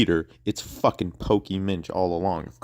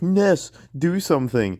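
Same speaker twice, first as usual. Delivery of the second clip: mock panicked plea; 7 semitones higher than usual. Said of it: "they're like".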